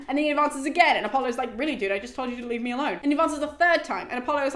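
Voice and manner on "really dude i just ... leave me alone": quick, irritated brush-off; mild mock annoyance. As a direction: rattle off a weary retort. Apollo annoyed at second advance.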